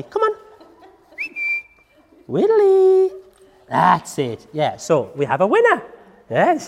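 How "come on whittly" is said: high, eager coaxing with a laugh; excited dog talk. Real, not acted. Trainer calling her dog to bring the string, high excited voice.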